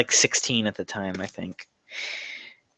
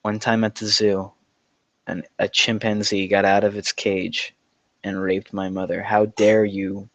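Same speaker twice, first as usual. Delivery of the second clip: deadpan. Retold or imitated. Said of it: "like, a very straight face, like, straight voice".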